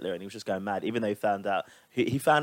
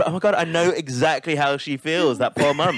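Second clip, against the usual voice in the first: louder, higher, drawn-out mock horror; mock-traumatised sympathy; 4 semitones higher, 5 dB louder than usual. Joking about a friend's poor mum, mock horror. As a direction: ham up the shocked sympathy. Acting out a traumatised viewer's reaction.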